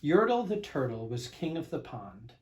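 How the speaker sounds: put-on lively read-aloud to children; storybook reading. A narrator's reading. Narrator reading a picture book to kids, bouncy storybook voice.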